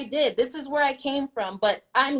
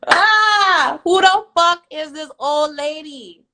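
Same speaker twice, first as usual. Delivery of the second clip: laughing; 3 semitones higher, 7 dB louder, slower than usual. Real, not acted. Laughing at the critic.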